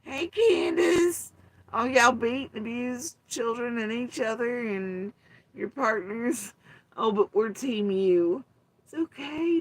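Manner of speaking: very high, loud sing-song greetings; mock fawning women. Mocking women who cheer abusers, high sweet coo. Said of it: "The women are like".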